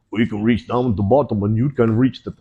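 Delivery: put-on lightly done Brazilian accent slipping into Russian; attempted Brazilian accent. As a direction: badly fake a Brazilian accent, sounding Russian. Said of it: "well, that's a Russian accent".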